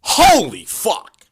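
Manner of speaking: slow, loud, high-rising exclamation; be floored by the compliment; overjoyed surprise. Pretend. Guy thrilled at being told he smells nice, slow loud exclamation.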